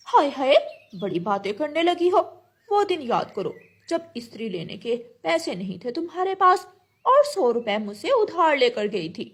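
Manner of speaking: lightly voiced indignant crow. Crow reminding bird of an old loan, mildly indignant. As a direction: throw an old favour back at her.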